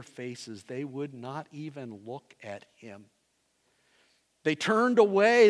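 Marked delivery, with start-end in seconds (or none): 4.4-5.5 emphatic. Acted. Emphatic sermon repetition.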